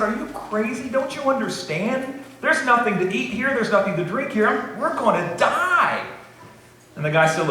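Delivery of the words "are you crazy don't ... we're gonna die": hammed-up panic, much higher pitch; beside himself. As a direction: squeal it out like a man sure he'll die.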